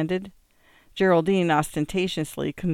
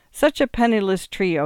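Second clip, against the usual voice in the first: cried; 5 semitones higher, 4 dB louder than usual. Acted. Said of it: "he cried".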